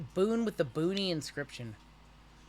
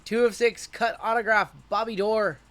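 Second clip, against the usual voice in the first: excited; 4 semitones higher, 5 dB louder than usual. Real, not acted. Announcing card hit on stream.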